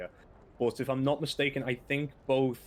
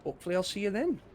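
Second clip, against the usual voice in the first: a hint of a Scottish accent; lightly voiced Scottish innkeeper; 3 semitones higher than usual. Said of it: "my horrible Scottish accent".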